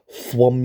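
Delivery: booming thwum; punch sound effect. Retold or imitated. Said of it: "The noise the Hulk makes".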